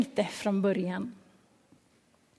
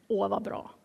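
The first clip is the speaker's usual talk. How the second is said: soft, low-key satisfied reply; quiet approval; 3 semitones lower, 6 dB quieter than usual. Retold or imitated. John hears Jesus baptizes more, quietly pleased. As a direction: approve softly, almost to yourself. John's first, soft answer.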